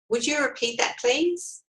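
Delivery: firm request, please rising high; assertive. Shown as a demonstration. Coach showing an assertive reply to a bully, firmly. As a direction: ask it assertively, no apology. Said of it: "you could assertively say".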